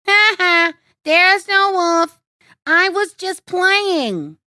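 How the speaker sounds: high, loud, slow mocking glee; roaring with laughter. A narrator's reading. Boy to the fooled villagers, laughing loudly. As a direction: crow it out, delighted by the trick. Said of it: "Peter roared with laughter".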